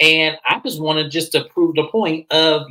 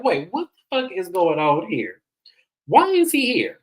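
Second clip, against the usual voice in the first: high-pitched incredulous outburst; baffled disbelief; 6 semitones higher than usual. Retold or imitated. Host retelling her shock at Jared walking in, baffled. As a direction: act out being totally thrown, pitch shooting up.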